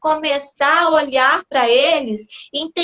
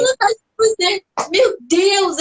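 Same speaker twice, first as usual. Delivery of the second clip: laughing; 7 semitones higher than usual. Real, not acted. Laughs about urge to scream.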